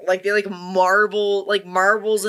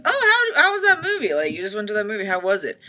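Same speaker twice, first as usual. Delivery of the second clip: eager friend; 2 semitones higher, faster than usual. Retold or imitated. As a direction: ask brightly about the movie. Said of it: "are like".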